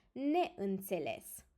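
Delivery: "Neînțeles" slow, with ne and î both sounded; prefixed-word demonstration. Shown as a demonstration. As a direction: join ne to înțeles slowly and clearly. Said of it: "we add in front of înțeles".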